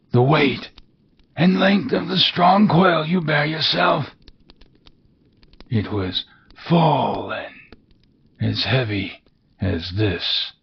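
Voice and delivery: high, wailing otherworldly voice; mournful ghost. Acted. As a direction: lament like a doomed spirit.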